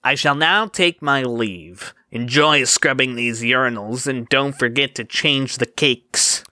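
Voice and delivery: lightly voiced smarmy rival; a touch of oily smugness. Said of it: "in that smarmy voice he always used".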